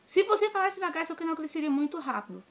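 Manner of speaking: mocking know-it-all suggestion; mock advice-giving. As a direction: lift the pitch to mimic unsolicited advice. Mimics commenters' advice about growth.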